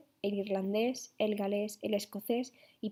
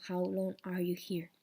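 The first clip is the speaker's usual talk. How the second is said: Irish English; slower than usual. Shown as a demonstration. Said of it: "ellos la pronuncian como".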